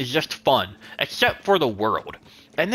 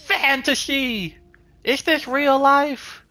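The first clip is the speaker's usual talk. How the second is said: stretched out, much higher, hammed-up awe; slow, much higher mock-epic exclamation; mock dramatic narrator; 10 semitones higher, much slower than usual. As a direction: echo the narrator like a grand fantasy trailer. Echoes the narrator's dramatic word.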